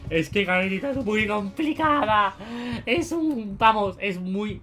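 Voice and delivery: loud, high, frustrated cry; exasperated outburst. Real, not acted. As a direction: blurt it out in disbelief. Frustrated at losing teammate in game.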